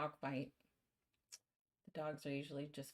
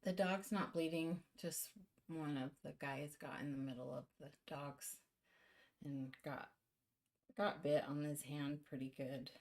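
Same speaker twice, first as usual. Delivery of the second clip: shaky, shaken-up voice; shaking voice; 4 dB quieter than usual. Real, not acted. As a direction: voice trembling after a scare. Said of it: "sorry, my voice is shaking".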